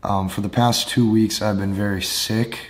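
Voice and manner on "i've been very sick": ordinary delivery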